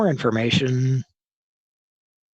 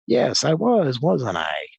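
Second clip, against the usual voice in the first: smug retort; 4 semitones higher than usual. Retold or imitated. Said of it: "I was like".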